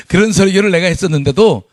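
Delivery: laughing through the words. Real, not acted. Pastor laughing at his own bad old sermons. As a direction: chuckle at yourself.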